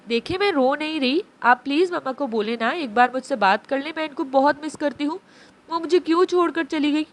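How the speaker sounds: put-on a small girl's voice, holding back tears; pleading little girl. Abi tells Abeer she misses her mother, lightly tearful.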